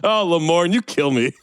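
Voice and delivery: mock chummy laughter, playing along; fake ingratiating laugh. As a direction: pretend to crack up at someone's joke. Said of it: "you laugh too".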